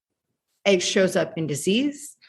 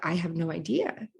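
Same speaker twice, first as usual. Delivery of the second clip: stunned realization; 8 dB quieter than usual. Retold or imitated. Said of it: "looked at him and thought, like".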